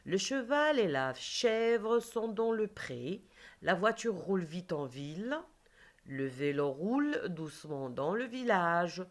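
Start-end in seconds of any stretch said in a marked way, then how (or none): 0.0-6.7 slow model reading; teacher repeating a sentence more slowly; slower reread. Shown as a demonstration. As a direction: reread slowly with each word spaced. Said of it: "Je répète les quatre phrases".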